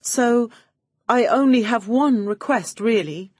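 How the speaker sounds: high, gushing starstruck praise; fawning gush. Acted. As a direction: swoon over the studio boss. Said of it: "I was laying it on thick".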